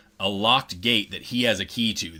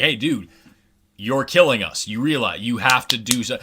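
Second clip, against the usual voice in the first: louder protester calling out; protesters confronting; 3 semitones higher, 6 dB louder than usual. Retold or imitated. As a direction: confront him in the street. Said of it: "being like".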